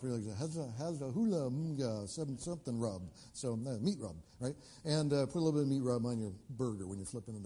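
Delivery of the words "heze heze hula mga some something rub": mock mangled names. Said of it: "Some of you guys butchered them up".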